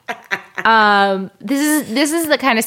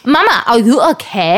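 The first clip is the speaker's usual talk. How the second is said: amused mimicry of a German-sounding child; imitated German-tourist toddler; 2 semitones higher, 4 dB louder than usual. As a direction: play the little German tourist, half laughing. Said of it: "talks like a little German Taurus".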